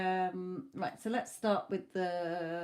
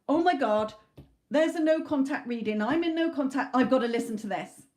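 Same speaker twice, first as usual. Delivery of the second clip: mock excited client; 4 semitones higher, 5 dB louder than usual. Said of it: "It is a world of".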